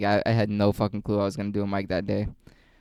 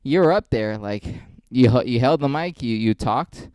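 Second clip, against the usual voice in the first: mock a patronizing pep talk; condescending pat on back; 3 semitones higher, 4 dB louder than usual. Comic mocking people who console him after bombing, lightly patronizing. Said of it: "people, like, give you that fucking pat on the back".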